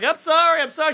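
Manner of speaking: high, timid apologizing; meek apology. Retold or imitated. Comedian meekly apologizing to the instructor. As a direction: cringe and say sorry. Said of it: "I'm like".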